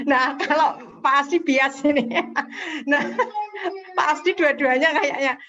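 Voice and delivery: teasing while laughing. Real, not acted. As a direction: say it through a laugh.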